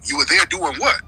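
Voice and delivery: pitched high, disbelieving; incredulous. Retold or imitated. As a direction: push back in disbelief. Acted skeptical dialogue.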